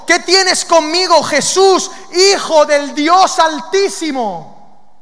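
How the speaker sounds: high, loud, slow demon cry; loud, drawn-out plea falling at the end; crying out loudly. Acted. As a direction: cry it out, stretching each phrase. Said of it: "clamando a gran voz dijo".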